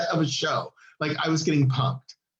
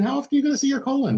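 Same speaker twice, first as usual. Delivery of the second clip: quick, bright and louder joke; patient joking about how rarely you see your colon; playful excitement; 10 semitones higher, 3 dB louder, much faster than usual. Real, not acted. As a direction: rush it out with glee.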